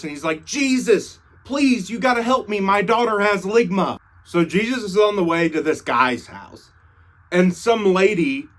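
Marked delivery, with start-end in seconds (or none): 0.4-4.0 high-pitched mock plea; hammed-up supplicant's appeal; desperate pleading. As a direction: beg urgently, pitched up from the first word. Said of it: "he bows before Jesus".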